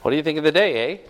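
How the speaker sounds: imitated Canadian small talk ending on "eh"; playful Canadian impression; Canadian accent. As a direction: lightly put on a Canadian accent. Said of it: "apparently Canadian".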